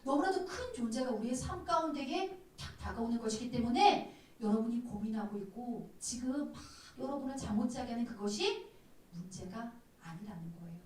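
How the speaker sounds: ordinary talk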